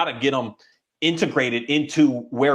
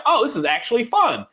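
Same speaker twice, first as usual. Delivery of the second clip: much higher, bright surprised delight; mock happy dog voice; 10 semitones higher than usual. Trainer voicing the dog discovering water is fun, in a high happy voice. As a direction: squeak it out like the dog finding it fun.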